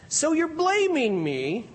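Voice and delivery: slow, high incredulous question; can't believe what he hears; lightly voiced disbelief. A narrator's reading. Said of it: "Job asked incredulously".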